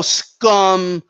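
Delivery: SCUM drawn out slowly with heavy emphasis; imitated emphasis. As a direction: lean long and hard on SCUM, mimicking the insult. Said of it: "really putting emphasis on scum".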